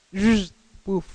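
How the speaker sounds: spoken sound effect of rushing; whoosh, then a short puff; imitated whoosh and puff. Preacher showing help rushing in, imitated whoosh.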